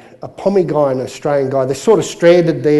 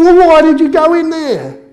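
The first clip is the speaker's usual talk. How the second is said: high, loud acted demand; hammed-up exasperated shout; exasperated Aussie; 12 semitones higher, 7 dB louder than usual. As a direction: demand an answer in high-pitched disbelief. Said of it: "He's going".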